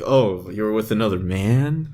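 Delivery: creepy jealous question, drawn up at the end; weird creeper. Acted. Beast confronting Mystique over another man, as a weird creeper. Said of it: "like, a weird creeper, be like".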